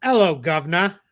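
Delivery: jokey put-on British accent for an Aussie; mock British accent greeting Australian fans. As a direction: ham up a cockney British hello. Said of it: "because he's from Australia, we gotta say it right".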